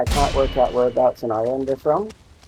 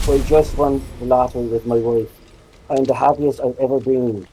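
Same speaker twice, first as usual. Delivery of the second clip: put-on miserable Northern Ireland accent. Comedian's bit on Irish accents, miserable Northern Irish voice. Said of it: "they always sound miserable".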